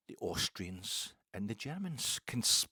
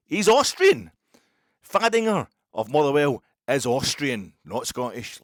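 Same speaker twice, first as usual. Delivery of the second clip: mock rant; 3 semitones higher, 11 dB louder than usual. Fan ranting that the Austrian player dived, loud mock outrage.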